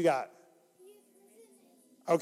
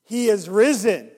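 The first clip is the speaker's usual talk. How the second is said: call to congregation; 4 dB louder than usual. Shown as a demonstration. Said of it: "say he is risen indeed really loud".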